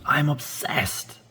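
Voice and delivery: I'm hit high and slow, drawn out; stress on I'm. Shown as a demonstration. Teacher showing learners where to stress, slow and emphatic. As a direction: lean hard on I'm, slowly. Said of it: "Really, really wanna stress in here".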